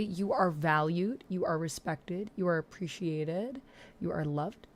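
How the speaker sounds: softly spoken, tender reassurance; mean each phrase, gently; soft, heartfelt words to a supporter; sincere affirmation. Real, not acted. Sincere positive affirmation for donor.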